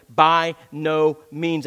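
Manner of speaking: slow, weighty "By no means"; emphatic. Retold or imitated. Preacher quoting Paul to the congregation, emphatic and slow. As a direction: lean hard on "By no means", each word slow. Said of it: "he says emphatically".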